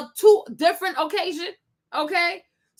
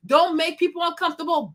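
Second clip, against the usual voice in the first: ordinary talk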